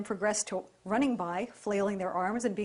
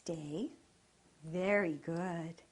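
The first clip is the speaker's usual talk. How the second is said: calm, slow praise to the dog; calm even praise voice; 3 semitones lower, 4 dB quieter, slower than usual. Real, not acted. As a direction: soothe the dog as you praise. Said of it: "keep your voice nice and calm when you praise the dog".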